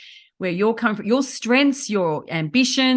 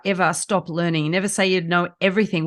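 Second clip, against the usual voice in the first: normal talking voice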